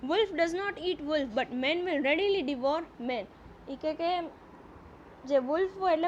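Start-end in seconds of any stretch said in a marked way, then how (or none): 0.1-3.2 slow, deliberate reading aloud of the English text; slow story reading. A narrator's reading. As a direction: read each phrase slowly, as a teacher before translating. (ધીમે ધીમે વાર્તાનું વાંચન)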